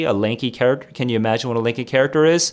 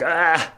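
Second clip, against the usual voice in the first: imitated gangly noise; 4 semitones higher than usual. Mimicking a lanky person flailing.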